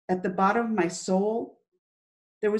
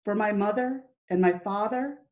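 poem recital; 2 semitones higher than usual. Acted. Girl reading her own poem from her diary, recited earnestly. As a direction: read each line like a memory surfacing.

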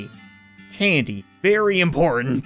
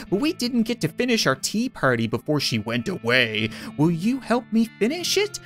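talking doll. Acted. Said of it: "doll speaking".

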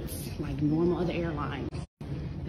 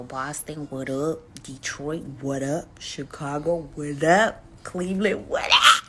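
shout-outs; 5 dB louder, slower than usual. Real, not acted.

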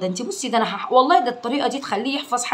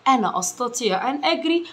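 word by word. Shown as a demonstration. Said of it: "بمشي كلمة كلمة معاكم".

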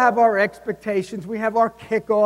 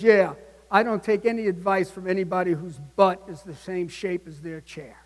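Clint Eastwood; 3 semitones lower than usual. Retold or imitated. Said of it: "Clint Eastwood leans forward and goes".

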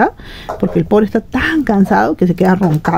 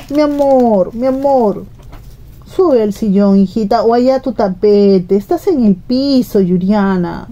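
tender to her daughter; slower than usual. Real, not acted. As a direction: coax her off the cold floor lovingly. Mother turns to her daughter.

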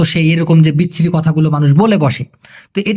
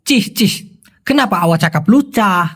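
disapproving reproach; much slower than usual. Shown as a demonstration. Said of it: "তো ওরা বলে".

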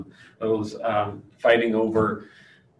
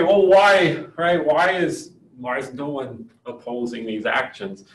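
higher and louder, baffled asking; incredulous question; 4 semitones higher, 5 dB louder than usual. Pretend. Teacher voicing a student's doubt to the class, higher and louder incredulous. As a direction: voice the puzzled student's objection. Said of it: "and so you might say".

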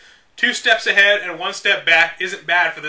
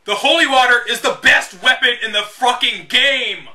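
louder, higher insistent outburst; emphatic exclamation; 7 semitones higher, 5 dB louder than usual. Real, not acted. Gamer ranting that holy water is best, loud. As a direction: insist it like it's obvious.

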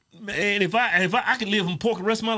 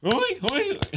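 mock oinks; 6 semitones higher than usual. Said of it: "You sound like a seal".

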